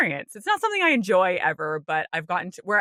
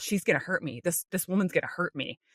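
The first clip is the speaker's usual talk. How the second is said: scared inner voice; 6 dB quieter, faster than usual. Retold or imitated. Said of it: "I am thinking to myself".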